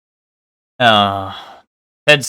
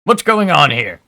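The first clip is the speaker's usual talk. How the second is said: odd detective voice; 3 semitones higher than usual. Acted. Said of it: "I don't know why I did that voice".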